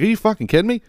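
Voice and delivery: high incredulous squeal; mock disbelief. Teller scoffing at the clueless husband, high incredulous squeal. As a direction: shriek it in disbelief. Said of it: "I'm like".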